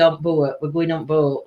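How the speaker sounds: broad northern "boat"; northern accent. Shown as a demonstration. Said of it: "I used to say".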